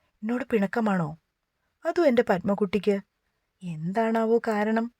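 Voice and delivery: lightly sing-song teasing his sulking wife. Acted. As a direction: coax her with a little tune. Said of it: "അവൻ ഈണത്തിൽ ചോദിച്ചു".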